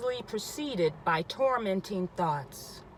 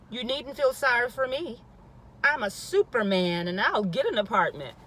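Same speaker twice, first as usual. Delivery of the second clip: defiant; 4 semitones higher, 4 dB louder than usual. Acted. Woman defiantly answers pitying friends.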